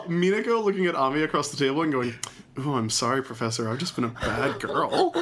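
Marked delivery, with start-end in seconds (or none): 2.6-5.1 sultry. Acted. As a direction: play it coy and seductive, lightly. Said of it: "She doesn't say it sultry".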